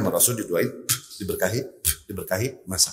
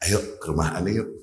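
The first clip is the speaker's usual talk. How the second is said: low, hushed and softer; whispering; 10 semitones lower, 9 dB quieter than usual. Retold or imitated. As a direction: say it under your breath so others won't hear. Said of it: "Bisik-bisik sama Rasul".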